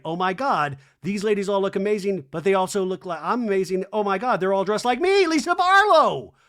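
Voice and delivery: excitement building to a high, loud shout; mimicked rising thrill. Lisa realizing they're all dressed like her, building mock ecstasy. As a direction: build to a shrieked, hammed-up own name. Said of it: "this all happening in her brain".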